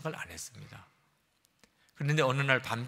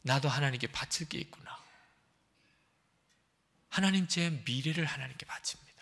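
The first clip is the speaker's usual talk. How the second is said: tearful surrender. Retold or imitated. 펑펑 울었다는 거예요.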